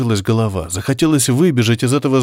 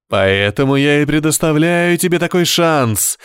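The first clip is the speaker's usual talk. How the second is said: exclaiming devil; 4 semitones higher than usual. Acted. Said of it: "воскликнул дьявол".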